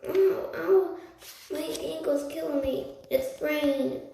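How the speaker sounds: loud, high fake pain wail. A narrator's reading. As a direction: ham up a sprained ankle. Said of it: "started to wail".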